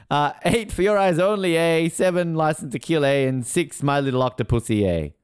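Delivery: lightly exaggerated Australian with tagged-on "eh"; really Australian. Host finishing the Bond rankings in mock Australian. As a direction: lean a little into the Australian. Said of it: "the host got really Australian towards the end"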